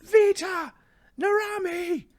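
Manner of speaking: loud, high screams for help; yelling the alarm. Acted. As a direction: shriek for your guards, one call at a time. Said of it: "she's yelling like".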